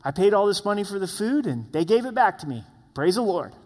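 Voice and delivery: a hint of greedy delight, the pitch jumping up on sweet; mock gleeful. Preacher imitating a selfish brother, mock gleeful. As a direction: lightly play a man pleased to pocket the refund. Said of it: "you're like".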